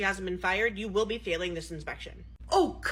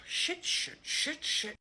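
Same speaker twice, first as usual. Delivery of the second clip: whispered swearing; 7 semitones higher, 4 dB quieter, much slower than usual. Acted. Panicked swearing under breath.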